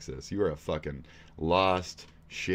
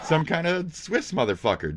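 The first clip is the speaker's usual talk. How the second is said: high, slow words through laughter; laughing; 11 semitones higher, 6 dB louder, slower than usual. Real, not acted. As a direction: crack up at your own picture. Laughing at his own photo.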